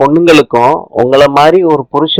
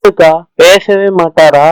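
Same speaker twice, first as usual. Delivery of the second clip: pleading cry; 3 semitones higher than usual. Acted. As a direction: cry out to your sister in distress. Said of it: "எதுக்குடி கத்துற?".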